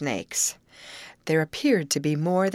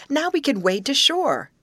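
high, loud and elated; joyous cry; 10 semitones higher, 5 dB louder than usual. A narrator's reading. Amy tells her friends they can wade, joyously. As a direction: call it out with rising joy. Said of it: "cried Amy joyously".

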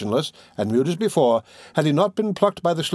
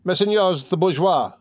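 crying out; 7 semitones higher, slower than usual. A narrator's reading. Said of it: "he cried at the top of his lungs".

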